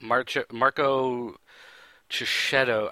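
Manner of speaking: halting second try at "March-, Marco Cicchetto"; unsure pronunciation. Real, not acted. Host retrying an artist's name, "Marco Cicchetto" slow and halting. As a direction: stumble on "March-", restart, pause before "Cicchetto". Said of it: "I'm going to pronounce this wrong".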